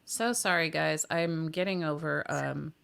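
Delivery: hoarse, croaky from a cold; frog voice. Real, not acted. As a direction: talk through a rough throat. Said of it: "my voice is like a frog right now".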